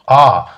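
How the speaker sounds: "আ" said as a separate vowel sound. Shown as a demonstration. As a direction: sound out "আ" on its own. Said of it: "vowel sound দিয়ে হচ্ছে". ("আ" স্বরধ্বনি আলাদা করে উচ্চারণ)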